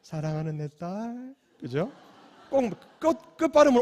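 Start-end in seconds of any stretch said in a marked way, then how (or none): 0.0-1.3 soft, slow Seoul-style tender call. Retold or imitated. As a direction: coo it gently like a Seoul mother. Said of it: "서울 분들은 그렇게 안 하시잖아요".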